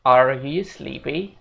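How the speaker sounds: slow, with a strong rolled-in R on "Are"; thick American R in "Are"; American accent demo; American English. Shown as a demonstration. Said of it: "di American English mereka bakal bilang".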